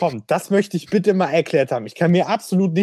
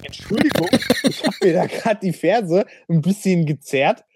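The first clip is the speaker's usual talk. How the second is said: mock whiny soldier; 3 semitones higher than usual. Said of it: "da konntest du auch nicht sagen".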